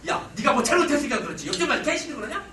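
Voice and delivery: mildly annoyed husband, blaming; testy acted retort; irritated dad. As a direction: play a dad who is a bit put out. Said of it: "기분 나쁜 아빠들은 어떻게 해요".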